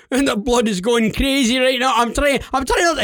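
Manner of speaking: high, worked-up prank voice; mock agitation; feigned excitement. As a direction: babble like an overexcited winner. Acts overexcited on prank call.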